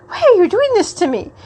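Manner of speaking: mock whiny protest. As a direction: whine it like a wounded friend. Slapped friend's acted complaint.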